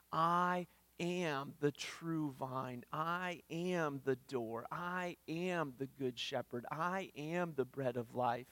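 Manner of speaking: slow, weighty I am statements; solemn proclamation. Acted. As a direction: lean on each "am", unhurried. Jesus' I am statements.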